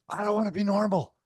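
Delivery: freaked-out protest. Retold or imitated. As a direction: imitate him losing it in disbelief. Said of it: "And he freaked out again".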